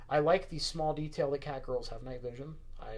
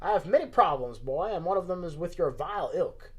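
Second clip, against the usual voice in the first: put-on Southern old man's accusation, louder at the start; Southern accent; 2 semitones higher, 4 dB louder than usual. Old man confronts the guard, Southern accent. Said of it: "at least my Southern accent isn't horrible".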